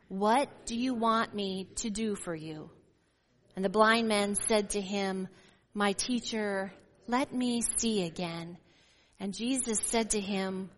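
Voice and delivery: measured, carrying public Bible reading; scripture reading. Acted. Pastor reading Mark to the congregation, measured and carrying. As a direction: read the passage aloud to the church.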